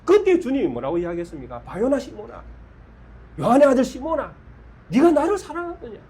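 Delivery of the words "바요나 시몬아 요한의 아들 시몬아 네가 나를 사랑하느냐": 점점 높아지는 간절한 외침; 사랑하느냐를 높이 끌어올리며 호소하듯; rising impassioned plea. Acted. 예수님의 간절한 부름과 물음. (제자에게 점점 높이 호소하는 목소리)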